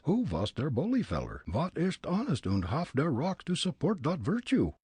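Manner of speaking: put-on high, comic German-accented Fritz; thick immigrant German accent, pitched high. Fritz sizing up the old man, German accent.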